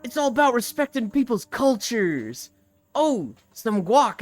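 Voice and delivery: Steve Brule. Retold or imitated. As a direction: imitate a goofy sketch-show character. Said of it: "he keeps being like".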